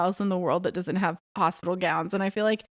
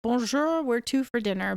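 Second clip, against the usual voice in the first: Bonjour sung out higher, then the request; polite shop greeting; 3 semitones higher than usual. Retold or imitated. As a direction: greet warmly before you ask. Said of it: "When you go into a restaurant".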